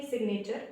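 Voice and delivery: "सिग्नेचर" with the g clearly spoken; teacher shows "सिग्नेचर" keeping the g; sounded g. Shown as a demonstration. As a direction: say "सिग्नेचर" as sig-nature. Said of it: "इसको भी हम पढ़ेंगे".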